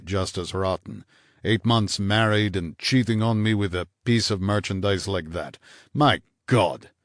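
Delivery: mildly hard, tight man's voice; a touch of cold fury. Acted. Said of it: "the hard, tight voice of Alex Morney".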